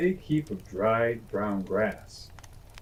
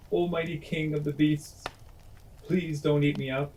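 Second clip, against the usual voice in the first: higher, small pleading mouse voice; squeaky little voice; 5 semitones higher than usual. Acted. Frightened mouse begs the lion, higher and small. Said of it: "he squeaked in a little bit of a voice".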